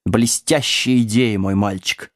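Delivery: put-on a touch of tearful pride from an old sorcerer; tenderly moved. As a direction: praise the pupil fondly and slowly. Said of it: "умилённо прослезился старый колдун".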